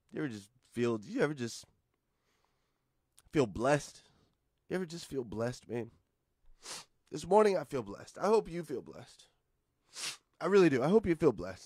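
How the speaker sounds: on the verge of tears. Telling the group he hopes they feel blessed this morning, teary-eyed. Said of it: "I'm all teary-eyed".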